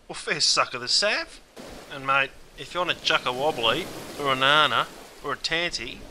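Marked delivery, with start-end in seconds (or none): 0.2-1.4 Aussie expression. Shown as a demonstration. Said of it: "We could alternatively say".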